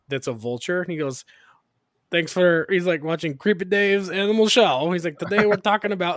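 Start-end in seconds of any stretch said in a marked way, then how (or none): 2.1-2.7 imitating Creepy Dave. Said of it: "this character he created called Creepy Dave". 3.0-4.9 imitating Creepy Dave. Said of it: "this character he created called Creepy Dave". 5.2-6.1 imitating Creepy Dave. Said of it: "this character he created called Creepy Dave".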